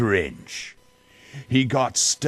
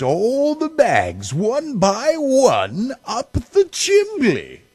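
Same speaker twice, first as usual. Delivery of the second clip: much higher and louder, with a laugh; laughing glee; 6 dB louder than usual. A narrator's reading. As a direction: chuckle as the loot goes up. Grinch's greedy glee.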